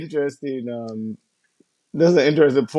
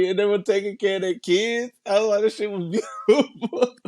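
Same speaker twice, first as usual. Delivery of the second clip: higher, hammed-up wonder at ducks; mock awe; 8 semitones higher than usual. Telling a friend about ducks, higher mock awe. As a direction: gush about the ducks, pitched up.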